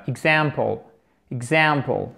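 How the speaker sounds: Example with the middle syllable stressed; stress on second syllable. Shown as a demonstration. Teacher modelling English for French learners, second-syllable stress in Example. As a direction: lean on the AM in Example. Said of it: "accent tonique sur cette deuxième syllabe".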